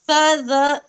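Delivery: स, ज as light, thin "sa, za"; thin, normal letters. Shown as a demonstration. Teacher contrasting thin letters with the thick one, light स, ज. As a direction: say स, ज without thickening the vowel. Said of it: "इसे हमें normal पढ़ना है, बारीक".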